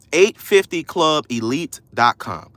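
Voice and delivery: each word spaced out clearly; deliberate, low-pitched spelling-out pace; slow dictation. Shown as a demonstration. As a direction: dictate it slowly for someone typing. Repeats address slowly for listeners.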